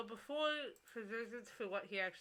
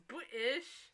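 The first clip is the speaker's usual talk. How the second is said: lightly mocked British accent, pitched up; 5 semitones higher, 3 dB louder than usual. Reading a viewer's joke, mock British accent. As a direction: put on a touch of mock British. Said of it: "British accent".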